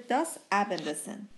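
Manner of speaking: آبندسن with an s sound, not z; double s as s. Shown as a demonstration. Teacher giving a double-s example, آبندسن with s. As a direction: say the double s in آبندسن as plain hissing s.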